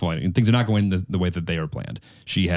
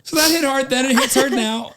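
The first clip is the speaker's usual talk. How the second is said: high, crying voice, words squeezed out; 5 dB louder than usual. Real, not acted. Grandson after reading his grandmother's letter, crying. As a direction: let the sob take the pitch up.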